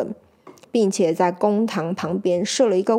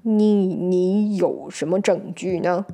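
cautious; 2 semitones lower, slower than usual. Acted. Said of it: "小心地问".

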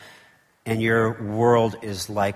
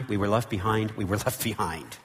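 softer, with a small laugh on were; laughing repeat; 4 dB quieter than usual. Shown as a demonstration. Preacher repeats his point to the congregation, laughing softly. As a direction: chuckle through the repeat.

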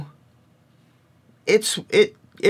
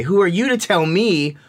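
put-on higher, defiant child's comeback; silently fuming at the teacher; a touch of mock outrage; indignant inner retort; 4 semitones higher than usual. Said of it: "in my head anyway".

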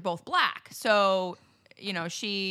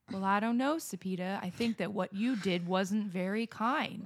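put-on Southern accent; 5 dB quieter than usual. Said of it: "from the deep south where I'd be like".

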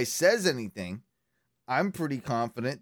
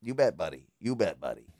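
put-on Minnesotan accent; 4 semitones lower than usual. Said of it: "a more Minnesotan accent".

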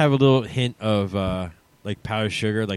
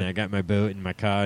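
put-on South Jersey accent; 3 semitones lower, 4 dB quieter than usual. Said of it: "the southern New Jersey accent".

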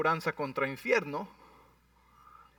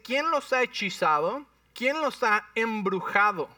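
raised, indignant questions; angry Paul; 5 semitones higher, 3 dB louder than usual. Acted. Pablo reclamando a los gálatas, con voz alzada. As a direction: demand who bewitched them. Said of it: "por qué hablas tan fuerte, Pablo".

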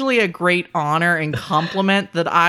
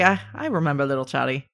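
put-on Boston accent; 3 semitones lower, faster than usual. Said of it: "the speaker trying to do a Boston accent".

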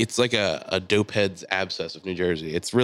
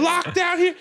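very high, outraged screech; imitated furious yelling. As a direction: screech in protest as the locked-out woman. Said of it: "watch her yelling at him".

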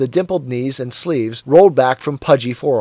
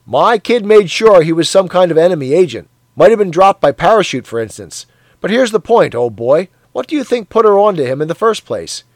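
loud, higher, proud boast; triumphant Parsons; 4 semitones higher, 4 dB louder than usual. Acted. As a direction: crow about your daughter. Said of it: "went on triumphantly".

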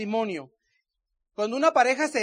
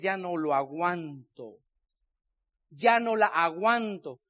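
fed up; 5 semitones lower, much slower than usual. Retold or imitated. Harto de la pareja.

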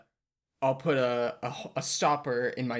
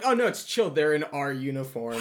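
mock carefree king; 3 semitones higher, 3 dB louder than usual. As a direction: play the king shrugging off an enemy army. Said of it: "I don't think the king would be like".

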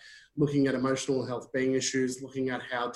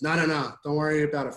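mildly insistent, slightly louder refusal; quick raised wave-away of help; acted brush-off; 3 semitones higher, 5 dB louder, faster than usual. Stuck bloke refusing the priest's help, acted brush-off.

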